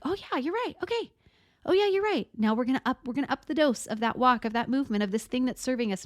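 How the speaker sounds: high, eager voice suddenly won over; convinced nervous system. Pretend. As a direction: play the inner voice happily agreeing. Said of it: "our nervous system is like".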